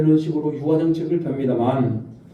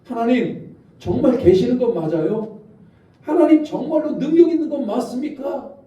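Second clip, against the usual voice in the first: higher, doubting questions thrown at God; challenging God; 6 semitones higher than usual. Retold or imitated. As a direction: demand answers from God in disbelief. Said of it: "라고 그들은 하나님께 따졌단 말입니다".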